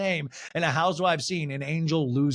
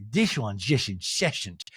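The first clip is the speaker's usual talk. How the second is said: slow, lower mock-weary voice; Meredith impression; 4 semitones lower, slower than usual. Castmate complaining about her pursuer, mock weary. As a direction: drag it out like a fed-up castmate. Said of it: "And Meredith's like".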